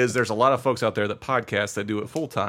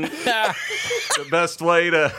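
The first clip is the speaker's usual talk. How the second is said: hammy announcer; 6 semitones higher, much slower than usual. Acted. Hammy plug.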